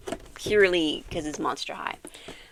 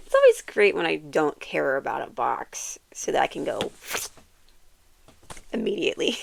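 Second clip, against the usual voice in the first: whispering. Real, not acted. Muttering an aside about the box.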